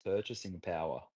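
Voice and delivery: a calm Jedi master's low murmur; hushed mock Jedi wisdom; Qui-Gon impression. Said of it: "Yeah, that was Qui-Gon".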